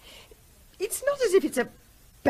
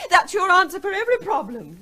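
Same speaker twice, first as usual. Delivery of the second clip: bitter reproach; 8 semitones higher, 5 dB louder than usual. Acted. Wife confronts silent husband.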